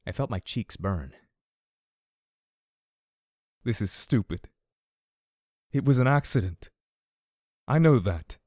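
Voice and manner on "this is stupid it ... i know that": thin voice cracking. A narrator's reading. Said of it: "His thin voice cracked again".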